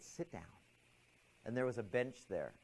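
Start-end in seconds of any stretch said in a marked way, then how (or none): 0.0-0.4 hushed, very soft command; inner voice. Retold or imitated. Mysterious inner voice instructing the student, hushed. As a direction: speak it quietly from inside the head. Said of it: "where this voice came from".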